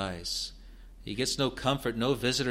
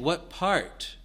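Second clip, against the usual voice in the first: high, loud, pressing questions; a suffering crier begging to know the hour; anguished pleading; 8 semitones higher, 6 dB louder than usual. Acted. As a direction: plead ever louder for the night to end. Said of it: "So he's saying".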